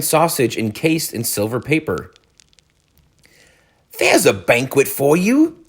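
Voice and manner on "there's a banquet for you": observing. A narrator's reading. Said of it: "observed the rat".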